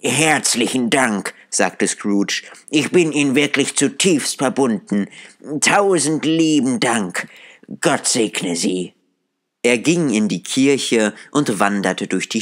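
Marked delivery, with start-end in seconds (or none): 0.0-8.9 put-on higher, heartfelt old man, softening at the end; grateful Scrooge. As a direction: Scrooge thanking the gentleman from the heart. Scrooge thanks him warmly.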